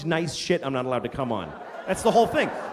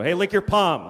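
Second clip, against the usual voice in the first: blunt request; 4 dB louder than usual. Retold or imitated. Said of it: "You can't just go".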